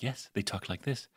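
low, hushed parody host; soft radio-show voice. Retold or imitated. Host imitating the SNL sketch hosts, soft low voice. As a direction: talk softly and evenly, like a sleepy broadcast. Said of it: "the normal show was like".

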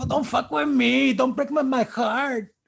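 mocking Mister Cool posturing; mock tough guy. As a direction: parody a wannabe hard man. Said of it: "I'm Mister Cool".

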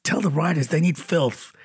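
imitating an American star coaxing a comedian; Whoopi Goldberg. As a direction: put on her American voice, starting low. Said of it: "She goes".

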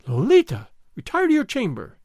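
loud, abrupt order to the daughter; sharp command. A narrator's reading. Mother ordering her daughter out of the room, loud and sharp. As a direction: send her off at once. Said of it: "Doña Catalina exclaimed".

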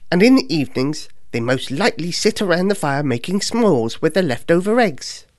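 bunny voice. Acted. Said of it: "he thought".

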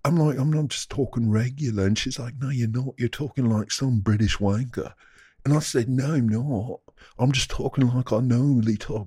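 put-on British wanker accent; mock British accent. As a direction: talk casually in a hammed-up British accent.

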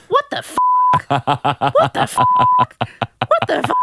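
mock Southern drawl, disbelieving; country twang. Retelling a dumped contestant in the car, in a country twang. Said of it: "in her country twang".

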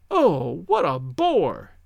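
slow, drawn-out mock wail. A narrator's reading. Isabel complaining about the ice, slow mock wail. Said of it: "wailed Isabel".

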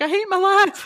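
a touch of mock self-pity; hammed-up whine about life; whiny mopey self. Herself after a tooth pulled, mildly mock mopey. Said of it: "I was a bitch-ass baby".

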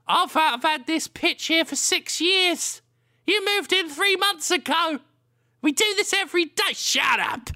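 high mock squabbling; indignant vendor. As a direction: argue back in the seller's voice. Vendor arguing back.

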